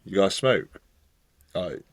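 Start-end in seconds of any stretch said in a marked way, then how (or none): 0.0-0.8 lightly imitated German accent; a quick, louder stab at a German accent. Stranger on the train asking friends, mock German accent. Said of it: "in that sort of Germany accent".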